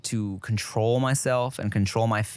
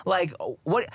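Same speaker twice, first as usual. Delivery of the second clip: pitched-up incredulous questioning; retold disbelief; 5 semitones higher than usual. Son silently questioning mom's story, mock-incredulous. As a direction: act out baffled inner questioning. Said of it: "in my head, I'm like".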